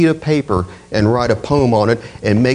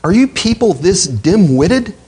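rising higher, incredulous rebuke; exasperated scolding; 4 semitones higher than usual. Retold or imitated. Paul rebuking the Galatians, incredulous and rising higher. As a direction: scold them like you can't believe it. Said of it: "he's telling them".

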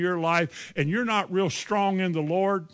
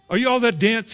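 mild mock exasperation; 3 semitones higher, 4 dB louder, faster than usual. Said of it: "Now he's mad".

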